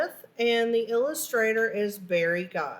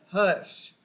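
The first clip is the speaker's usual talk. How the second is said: stern hush; 3 semitones lower than usual. Acted.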